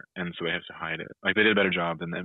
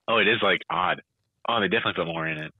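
eating sour candy. Real, not acted. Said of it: "Oh, that's sour".

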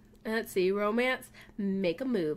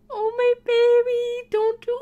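high, loud distressed wail; really concerned; 12 semitones higher, 9 dB louder than usual. Real, not acted. Player frets over the pug, really concerned. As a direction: wail with worry over a beloved pet. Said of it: "I'm really concerned now".

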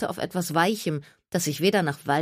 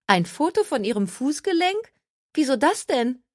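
higher, disbelieving echo of Fußgelenk; incredulous; 9 semitones higher than usual. A narrator's reading. Maxine baffled that Gertie photographs her ankle, incredulous. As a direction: repeat "Fußgelenk" as if it makes no sense, rising.

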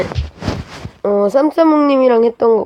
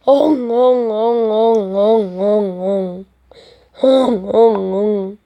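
mock crying; 3 semitones higher, much slower than usual.

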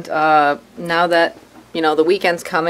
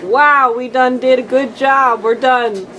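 mock chill voice; 5 semitones higher than usual. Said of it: "I'm gonna start chillaxing and be like".

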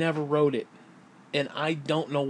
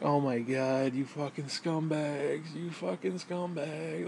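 muttered scorn; 6 dB quieter, slower than usual. Retold or imitated. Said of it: "And I was like".

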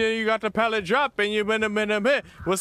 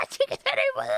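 much higher, shouted cheer; excited whoop; much faster than usual. Real, not acted. Streamer cheering the win, excited whoop. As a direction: yell it out in pure glee.

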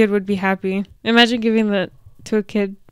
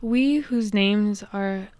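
slow reading; 4 dB quieter, slower than usual. Shown as a demonstration. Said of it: "so, like, written under here".

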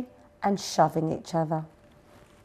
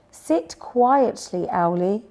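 slow, raised-pitch request to settle down; gentle instruction; 2 semitones higher, 3 dB louder, slower than usual. A narrator's reading. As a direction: tell a friend slowly to settle. Owl settles friend before reading.

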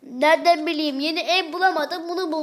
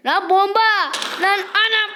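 higher startled shout; startled yelp; 5 semitones higher than usual. Real, not acted. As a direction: jump at the blast. Bomb goes off in game.

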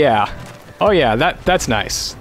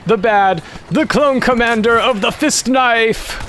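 higher, slow epic title; grand announcement; 6 semitones higher, slower than usual. Pretend. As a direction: announce it like a champion's name. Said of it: "I need a better name for that".

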